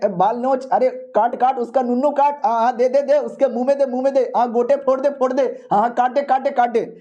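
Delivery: high, egging on a brawl with eager shouts; excited cheering. Acted. Fat kid cheering a fight. (जोश में लड़ाई भड़काना)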